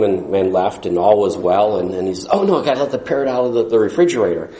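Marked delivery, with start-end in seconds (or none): 2.3-4.5 hurried alarm. Retold or imitated. Man remembers parrot in fridge.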